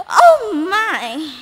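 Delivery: startled gasp of worry; alarmed cry. A narrator's reading. Narrator cries out in alarm.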